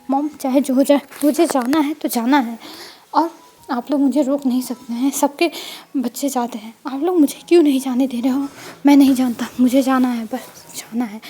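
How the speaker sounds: loud, insistent demand to go; stubborn shouting. Acted. Wing shouting at his mom that he must go on the trip. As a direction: yell it like a teen who won't back down.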